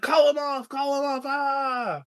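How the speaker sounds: high, mock panicked cry; panicked pleas. Jojen and Mira up a tree begging Bran, mock panic. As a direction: beg someone to call the wolf off. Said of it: "they're like".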